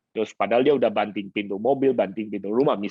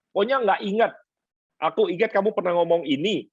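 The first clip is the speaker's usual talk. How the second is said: mock wife; 6 semitones higher than usual. Pastor voicing wife's insistence.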